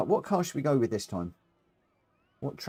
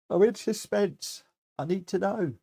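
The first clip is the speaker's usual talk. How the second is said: mock suspense; 7 semitones higher than usual. Waiting for the track choice.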